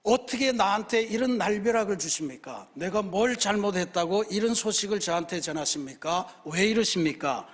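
mildly acted protest to heaven; a touch of lament in the questions; pleading complaint. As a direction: plead as Mary, with restrained indignation. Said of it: "하소연이요, 탄원입니다".

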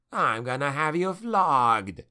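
snapped. A narrator's reading. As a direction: threaten a subordinate in angry indignation. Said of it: "Fuerland snapped".

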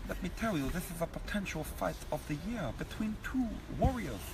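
lightly voiced Eubank holding court; Chris Eubank impression. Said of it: "Chris Livingstone Eubank".

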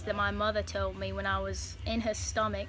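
put-on loosely held Australian accent. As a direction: tell it in a put-on Aussie accent. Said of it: "Sorry, I broke my accent".

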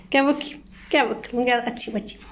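soft coaxing. Real, not acted. Softly coaxing the pet to door.

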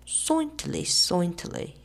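SOINTILY with an oy in the first syllable; comic dialect. A narrator's reading. Comic spelling of certainly, high voice.

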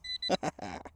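short real laugh of delight. Real, not acted. Detectorist laughing over a second coin, delighted. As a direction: laugh happily after the find.

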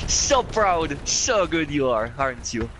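sarcastic. Real, not acted. Sarcastic praise after dying.

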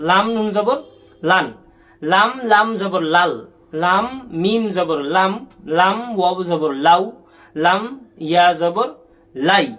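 each letter named, then joined, as in লান and লাল; measured drill landing on blends like লাউ; spelling out. Shown as a demonstration. Teacher modelling how pupils should read, spelled-out recitation. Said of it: "তোমরা কিন্তু বানান করে পড়বা".

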